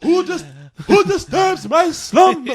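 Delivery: slow, high monster voice; grinding stone statue. Pretend. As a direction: rise stiffly like an old statue. He rises up all stiff.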